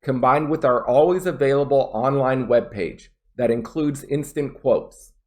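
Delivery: brief pause before "that includes instant quotes"; small pauses between phrases. Shown as a demonstration. Teacher demonstrating where to pause in a read-aloud, small pauses. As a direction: read clearly, small break ahead of "that". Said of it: "I had a small pause before combined".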